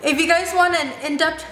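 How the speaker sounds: careful retry through braces; talking with braces. Real, not acted. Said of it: "it's so hard to talk with braces".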